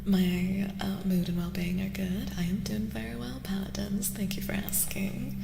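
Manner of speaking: gentle unvoiced whisper; ASMR whisper. Answers chat in whisper.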